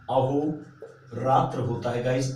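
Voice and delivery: अहोरात्र said slowly, ending without i; slow careful word. Shown as a demonstration. Teacher to exam students, slow अहोरात्र. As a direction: draw out अहोरात्र clearly. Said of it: "अहोरात्रि नहीं होता".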